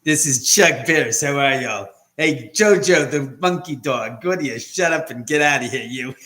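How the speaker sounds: Chuck Barris impersonation. Retold or imitated. Chuck Barris greeting his dog and fans, mildly loud mock brash. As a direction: hams up Chuck Barris calling out hellos. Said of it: "my best impersonation of him".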